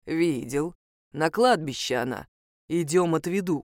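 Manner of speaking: the wolf Ismail leading her to the graveyard, low voice; wolf's voice. Acted. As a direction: answer as the wolf, low and steady. Wolf answers the heroine.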